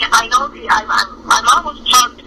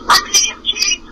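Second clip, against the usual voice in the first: higher-pitched mock yell at usual volume; an understated, high retold yell; 9 semitones higher than usual. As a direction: imitate her calling out, voice pitched up. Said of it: "and she's yelling".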